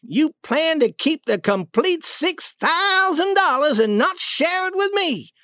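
high-pitched, insistent accusation; acted anger, words driven home; furious demand. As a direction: force a confession out of him. Duke demands confession while choking king.

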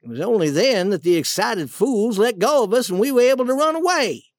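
understated acted reproach; accusing. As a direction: lay the blame squarely on them. Duke blames the king.

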